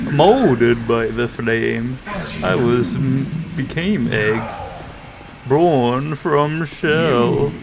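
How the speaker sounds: slow, heavy Bane-like voice; Bane impression. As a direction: drawl it like Bane. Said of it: "kinda sounds like, um, Bane".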